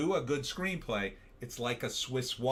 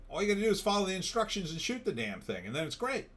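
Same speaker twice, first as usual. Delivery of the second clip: brisk exasperated; 7 semitones higher, faster than usual. Acted.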